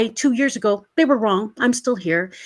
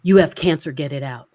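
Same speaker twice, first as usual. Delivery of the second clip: mysterious voice; 6 semitones lower than usual. Retold or imitated. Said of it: "I heard a voice say".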